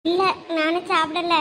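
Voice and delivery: slow, mildly tearful answer; a touch of tearfulness, drawn out. Acted. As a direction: answer slowly, still upset from crying. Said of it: "அப்புறம் எதுக்கு அழுகுற".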